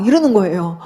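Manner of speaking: ordinary talk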